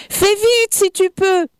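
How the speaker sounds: high call to a friend up a tree. Acted. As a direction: shout up into the tree, hurried. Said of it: "lui cria Brèchedent".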